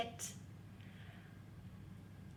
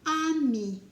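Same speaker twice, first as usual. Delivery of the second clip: called out word; 4 semitones higher, 7 dB louder than usual. Shown as a demonstration. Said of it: "teacher word drill".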